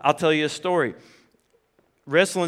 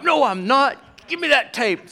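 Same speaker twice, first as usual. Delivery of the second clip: mock protest; 9 semitones higher, 4 dB louder than usual. Dad protesting his measured height.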